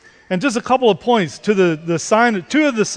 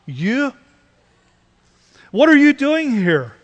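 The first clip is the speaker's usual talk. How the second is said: higher, shocked question from an angel; an angel catching a believer doing evil; astonished rebuke; 6 semitones higher, slower than usual. Retold or imitated. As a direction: gasp it out in disbelief. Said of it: "rebuke than the question".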